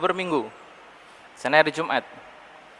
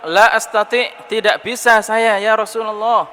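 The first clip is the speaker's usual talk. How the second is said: stubborn refusal; 8 semitones higher, 7 dB louder than usual. Retold or imitated. Man stubbornly refusing the Prophet.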